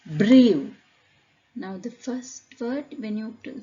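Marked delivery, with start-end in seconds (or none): 0.0-0.7 loud, isolated "Brew", gliding into oo; oo ending demo. Shown as a demonstration. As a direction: demonstrate "Brew" as bree-oo with a falling end. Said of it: "you say oo sound".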